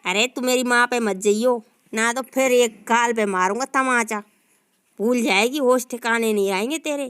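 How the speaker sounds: a low husband threatening a slap. Acted.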